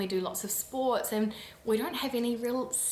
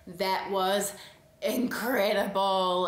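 gushing; 4 dB louder, slower than usual. Retold or imitated. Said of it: "coming out of a film and just being like".

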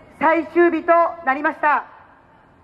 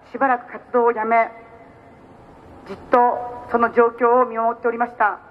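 lower, grave condolence tone; solemn; 3 semitones lower than usual. Real, not acted. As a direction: speak gravely and subdued. Turns to the shooting, condolences.

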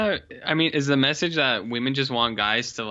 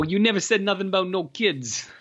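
higher, hammed-up shocked Giovanni; mock Giovanni; 8 semitones higher than usual. Giovanni seeing the nephew, mock shock. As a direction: voice the horrified man's complaint.

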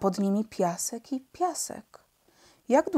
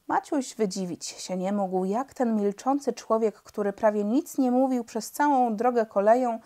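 usual speaking voice

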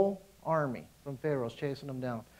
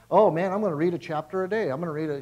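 mocking overzealous; 5 dB louder, faster than usual. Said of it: "don't get all".

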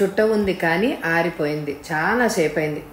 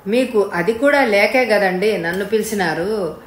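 understated cheeky comeback; quick retort. Acted. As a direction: fire it straight back at the customer. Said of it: "ఠక్కున అన్నాడు".

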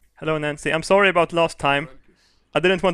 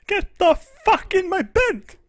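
gleeful. Acted. Player voicing his Sim inviting everyone to bed, high and gleeful. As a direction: cackle with mock triumph.

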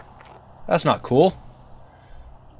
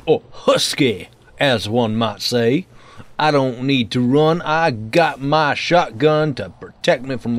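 Hillbilly McGee. Pretend. Gamer joking about fat Americans and shotguns, light hillbilly voice. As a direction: play at a backwoods hillbilly accent. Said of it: "I'm no longer Hillbilly McGee".

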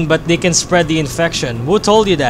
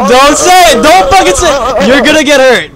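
urgent warning; 6 semitones higher, 6 dB louder than usual. Real, not acted. Warning friend not to jinx.

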